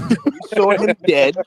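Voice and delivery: slow, laughing through the words; laughing mockery. Mocking a fighter's father to the crew, slow and laughing. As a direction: savour the joke, laughing as you drag it out. Mocking Schofield Senior's claim.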